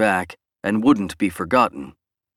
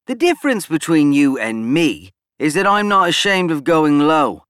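snapped out word by word, louder; staccato; 8 semitones higher, 4 dB louder than usual. A narrator's reading. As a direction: clip each word sharply and fast. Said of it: "snapping out the words in a staccato-like manner".

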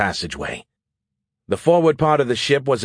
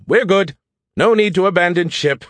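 excited relief; 8 semitones higher, 4 dB louder than usual. A narrator's reading. Skippy relieved announcement.

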